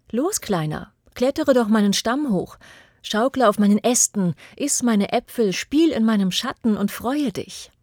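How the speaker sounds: put-on the old tree calls the boy up to play, coaxing; eager tree voice. Tree begging the boy to climb, eager and loud.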